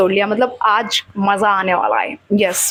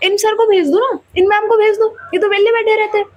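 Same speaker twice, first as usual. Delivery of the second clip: mocking teacher; 10 semitones higher than usual. A teacher behind heckles the sir, high jeering voice. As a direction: call out from the back, needling. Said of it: "पीछे से एक sir बोल रहे".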